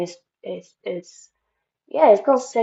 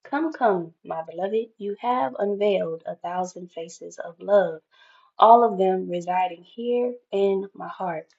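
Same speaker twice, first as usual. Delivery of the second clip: reading Rumi's Union card to viewers; poem reading. Acted. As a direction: read it like a love letter. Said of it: "it says".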